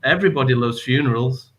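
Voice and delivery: cartoon narrator voice. Parent who can't stop copying the show, narrator voice. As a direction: imitate a kids' cartoon narrator. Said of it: "start doing the narrator's voice".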